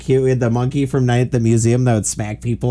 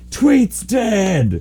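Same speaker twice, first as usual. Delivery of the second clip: higher, blunt announcement of death; owner's grim news; 8 semitones higher than usual. Retold or imitated. Giraffe owner telling crew, grim announcement. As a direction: deliver the bad news flatly, like the giraffe's owner.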